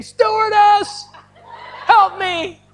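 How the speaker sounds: high, drawn-out comic scream for help; hammed-up high-pitched plea to the stewardess; mock scream. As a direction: shout in exaggerated panic, easing in volume but staying high. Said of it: "I scream".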